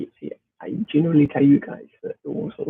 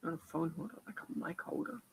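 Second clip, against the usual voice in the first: faint, distant from the microphone; far from mic; 16 dB quieter than usual. Real, not acted. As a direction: speak well away from the mic. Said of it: "I just sound like I'm too far away".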